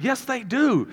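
high-pitched, indignant comeback; hammed-up protest; mock upset. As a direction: insist like an aggrieved husband, played for laughs. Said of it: "I am frustrated, and I am upset".

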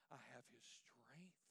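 slow breathy whisper. Acted. Pastor whispering his testimony to the church, slow whisper. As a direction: breathe it out slowly.

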